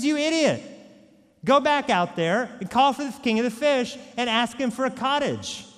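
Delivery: high, loud scolding; a wife berating her useless husband. Acted. Wife scolds the fisherman for asking nothing, high loud scold.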